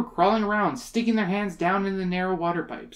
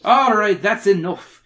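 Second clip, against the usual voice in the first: loud, commanding policeman; firm police shout; yelled; 4 semitones higher, 7 dB louder than usual. A narrator's reading. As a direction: break it up with authority. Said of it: "yelled a big red-faced policeman".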